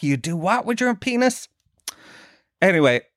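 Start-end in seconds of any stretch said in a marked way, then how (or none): 0.0-1.5 high, baffled squeak of disbelief, much higher; shocked disbelief. Retold or imitated. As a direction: gasp it out as if you can't believe it. Naive shock at learning about sex.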